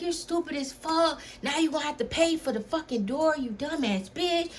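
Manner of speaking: imitating the boyfriend who is mad about the door; mock angry boyfriend. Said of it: "he was mad as fuck".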